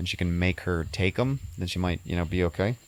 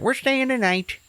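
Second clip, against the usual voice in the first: high-pitched emphatic declaration; emphatic announcement; 3 dB louder, slower than usual. Retold or imitated. Retelling her sudden decision to stay, emphatic announcement.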